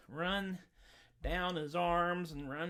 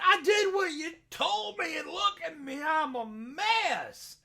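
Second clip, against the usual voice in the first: put-on much higher, louder, half-crying boy; whiny Jack; 10 semitones higher, 6 dB louder than usual. Jack to the sheriff's daughter, whimpering and high. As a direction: whimper it like a sorry mess. Jack's voice in told tale.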